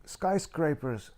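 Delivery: high, alarmed mother's voice; mom's worried report. Retold or imitated. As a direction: relay the news as his frightened mom. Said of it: "mom voiced in phone story".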